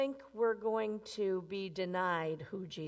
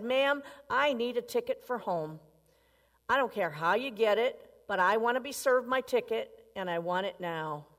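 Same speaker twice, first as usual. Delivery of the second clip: pushy, louder demand at the counter; demanding man; 3 dB louder than usual. Acted. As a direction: insist like a rude traveller who wants his ticket now. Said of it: "really angry".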